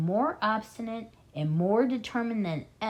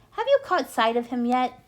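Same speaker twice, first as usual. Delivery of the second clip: calling; 5 semitones higher, 6 dB louder than usual. Acted. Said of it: "Bean called back".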